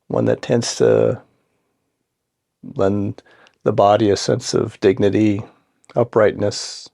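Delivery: calm, unhurried meditation guidance with long pauses; guided meditation. Acted. Guide settling listeners into seat and breath, calm guided meditation. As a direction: ease them gently into the practice, leaving space between phrases.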